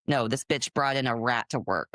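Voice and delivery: low mock-coworker voice; imitated gossip. Coworker passing on office gossip, low imitated gossip.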